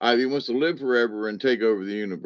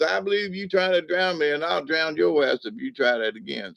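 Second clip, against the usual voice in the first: put-on drunk threatening; 5 semitones higher than usual. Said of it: "And he goes".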